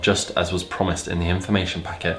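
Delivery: even, measured read-aloud; narrating a story aloud; story narration. A narrator's reading.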